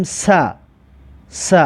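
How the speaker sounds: "س" sounded as "sa"; sin with fatha. Shown as a demonstration. Teacher models sin with fatha for learners, "س" as "sa". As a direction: say "س" as a thin, open "sa".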